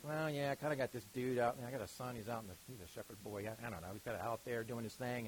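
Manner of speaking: a shrugging dad remembering his son; hesitant father. Retold or imitated. The father telling Samuel about the shepherd boy, unsure. Father voiced in Bible retelling.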